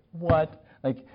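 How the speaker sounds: mildly incredulous questioning; short stunned questions, mock accusation; retold indignant disbelief. Retelling his challenge to the friend who backed out, mildly indignant. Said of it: "I was so mad at him".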